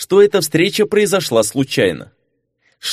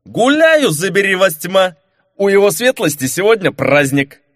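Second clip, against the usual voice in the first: put-on drunken reveller; 6 semitones higher than usual. Marquis fakes drunkenness before Leonora, rowdy shout. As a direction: play a rowdy tipsy nobleman.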